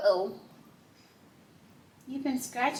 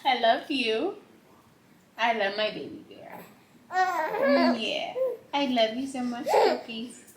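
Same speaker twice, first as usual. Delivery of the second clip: sweet nothings. Real, not acted. Tender words to baby.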